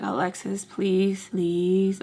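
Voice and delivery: calm, measured pleading. Retold or imitated. Caller begging Alexis to talk, imitated calm voice. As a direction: plead evenly, without pushing. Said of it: "in a calm voice".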